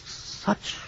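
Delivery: a hushed, slow, breathless question; barely getting the words out in shock; awed disbelief. Acted. Professor stunned by threat of destruction.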